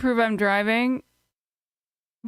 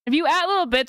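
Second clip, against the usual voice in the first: put-on high cute anime girl; 6 semitones higher than usual. Shown as a demonstration. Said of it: "I'll read it that way".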